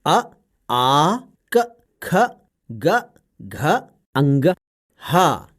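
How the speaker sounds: अ, आ, क, ख, ग, घ, अंग, ह each said alone and crisp, with a pause after each; careful letter drill. Shown as a demonstration. Parrot teaching the child, each letter clear and separate. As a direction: set out each throat letter one by one like a teacher. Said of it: "कंठ से किन किन वर्णों का उच्चारण होता है".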